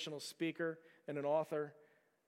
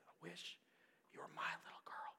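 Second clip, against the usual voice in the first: soft unvoiced whisper, a touch quicker; 12 dB quieter than usual. Teacher repeating her words to the girl, soft whisper. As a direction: hush it, barely breathing the words. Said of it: "she just said it again".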